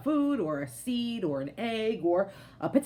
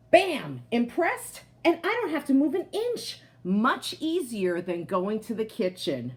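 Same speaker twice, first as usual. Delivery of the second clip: punchy, louder show-off read; storybook boast; 2 semitones higher, 3 dB louder than usual. A narrator's reading. Teacher reading the potato's boast to her class, punchy and proud. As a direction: brag like a delighted potato.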